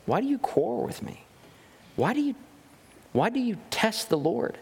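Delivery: an exasperated prophet asking why; Moses rebuking. Acted. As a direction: Moses pleads with quarreling Israelites, exasperated. Moses rebukes the quarreling people.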